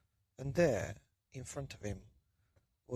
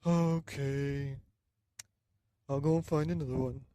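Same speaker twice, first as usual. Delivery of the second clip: put-on louder old man voice, fast; old man agreeing; 2 semitones higher, 5 dB louder than usual. Old man obeying his wife, quick and loud.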